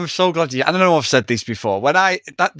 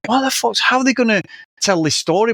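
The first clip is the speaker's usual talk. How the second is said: high-pitched baffled viewer reaction; mock disbelief; 7 semitones higher than usual. Film fan voicing doubts about a three-hour movie, mock disbelief. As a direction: act out a puzzled viewer, pitched up.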